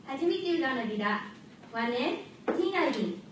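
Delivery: short greeting in Okinawan dialect. Shown as a demonstration. Student opening her speech to the audience, Okinawan dialect. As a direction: introduce yourself in Okinawan dialect. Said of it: "先ほど私は沖縄の方言で".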